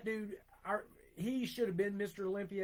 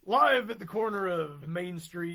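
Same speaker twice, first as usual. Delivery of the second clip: louder live reporter on location; newscaster voice; 6 dB louder than usual. Pretend. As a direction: announce it like a field reporter. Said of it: "Sounds like a newscaster".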